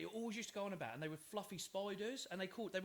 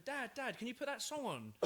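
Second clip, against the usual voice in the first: put-on child asking; 6 semitones higher than usual. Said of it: "literally going".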